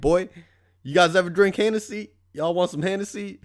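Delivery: lightly imitating an over-friendly drunk guy; drunk bro voice. Imitating a stranger at the hotel bar, hammed-up bro voice. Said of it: "he's like".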